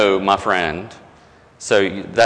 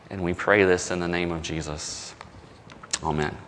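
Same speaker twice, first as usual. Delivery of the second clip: prayer. Real, not acted. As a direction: pray it sincerely, easing down to a hush by the amen. Closing prayer before the sermon.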